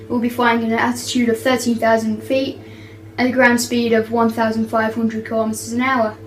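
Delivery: playful cabin crew announcement voice; flight attendant. Pretend. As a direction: read it like an airline PA announcement. Kid doing cabin announcements.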